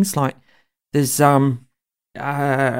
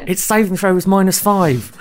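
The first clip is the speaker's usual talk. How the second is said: laughing, a bit louder; 5 semitones higher, 4 dB louder than usual. Real, not acted. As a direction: giggle out the joke about the dice. Joke about the sewer fight.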